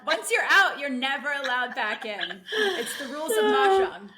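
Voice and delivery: mock stern ruling. Telling a friend she's banned from Mahjong, mock stern and laughing. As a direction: hand down the rules like a half-joking judge.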